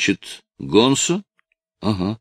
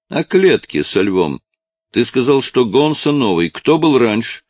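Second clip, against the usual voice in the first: pressing; 7 semitones higher, 4 dB louder than usual. Acted. Detective presses the boy.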